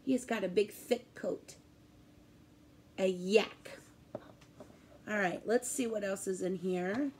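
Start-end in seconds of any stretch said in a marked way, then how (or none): 0.7-1.6 breathy whispered description; soft whisper. Shown as a demonstration. Describes yak coat softly. 3.0-3.8 hushed whisper of "A yak". Shown as a demonstration. Teacher whispers the animal name.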